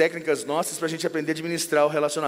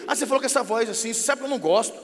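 quick, slightly raised scolding; mock offended spouse nagging; acted accusing complaint; 3 semitones higher, much faster than usual. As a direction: reproach your partner in a rush. Acted marital quarrel, accusing partner.

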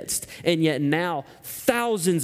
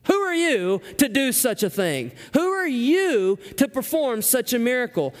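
mock-scornful demand, pitched up; scornful questioning; 4 semitones higher than usual. Shown as a demonstration. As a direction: sneer the question at them. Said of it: "This has a scornful taste to it".

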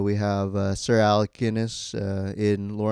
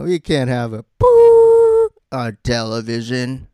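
slow, louder mock network censor; 3 semitones higher, 8 dB louder than usual. Friend riffing on TV executives, slow and loud mock. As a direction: ham up the studio boss.

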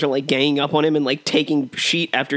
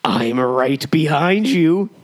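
slow, louder creepy villain line; slow creepy quote; 4 dB louder, much slower than usual. Acted. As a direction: stretch it out like a stalker. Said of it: "a good old-fashioned quote war".

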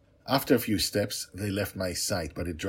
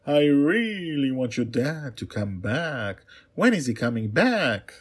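pleading princess; 6 semitones higher, 6 dB louder than usual. Acted.

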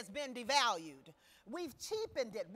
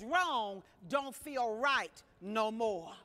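Wrong don't feel right no more, slow and firm; slow saying; 4 semitones lower, slower than usual. Shown as a demonstration. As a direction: lay the saying down slowly, word by word. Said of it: "my old saying is".

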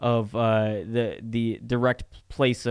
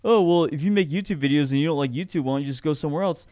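imitated complainer; 3 semitones higher, faster than usual. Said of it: "whenever everyone complains, like".

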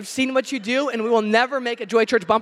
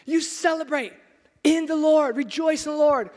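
Paul's proclamation; 3 semitones higher than usual. Retold or imitated. Preacher voicing Paul urging the church to rejoice. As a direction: call it out like an apostle. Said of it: "And Paul's saying".

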